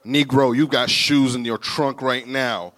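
deep, loud voice, slow and commanding; the Lord. Acted. The Lord correcting a reluctant preacher, deep and stern. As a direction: lay down the order slowly and low. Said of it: "And the Lord's like".

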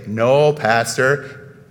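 very slow drawn-out "No, Pastor" in a low voice; slow call-and-response demo; prompted response. Shown as a demonstration. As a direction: model the congregation's reply, stretching each word. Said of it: "You're all supposed to say".

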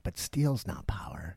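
slow hushed villain speech; Thulsa Doom whisper. Retold or imitated. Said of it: "he's like".

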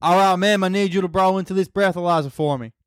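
put-on American police instruction; American cop. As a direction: play a formal American cop. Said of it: "this is an American cop breath testing you".

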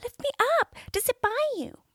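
high, fast frog voice; frog's plea. A narrator's reading. Frog begging the princess to lift him, high and fast. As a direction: squeak it as the little frog.

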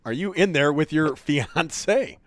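slowed down, every word spelled out; slow and clear. Real, not acted. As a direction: repeat it slowly so the caller hears.

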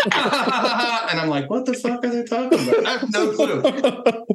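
talking through laughter, voice pushed up high; laughing. Real, not acted. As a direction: laugh your way through the disbelief. Laughing while retelling the interrogation.

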